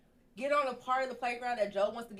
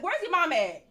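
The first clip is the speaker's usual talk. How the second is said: louder, higher demand across a playground; retold yelling; 7 semitones higher, 8 dB louder than usual. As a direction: imitate hollering for a parent. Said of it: "I'm yelling, people looking".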